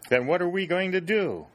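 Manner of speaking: put-on high, plaintive boyish question; a let-down boy pleading to know the plan; disappointed. A narrator's reading. Billy asks the scouts, high and disappointed. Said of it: "in his disappointed tone".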